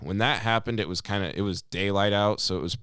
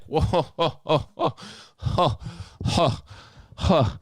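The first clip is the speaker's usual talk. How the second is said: a high string of whoa-ho's in disbelief; mock disbelief; 7 semitones higher, slower than usual. Worker reacting to the trucker's outburst with disbelief. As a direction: stop him short, incredulous.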